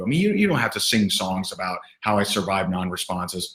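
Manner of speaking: mock-heroic boast about surviving; sarcastic bragging. Real, not acted. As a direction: play it as a sarcastic self-hero. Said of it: "I'm being a little sarcastic here".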